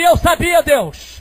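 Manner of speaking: high, loud praise to God; glorifying cry. Retold or imitated. Mother on her knees thanking God, retold as high cry. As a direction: cry it up to heaven. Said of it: "começa a glorificar e dizer".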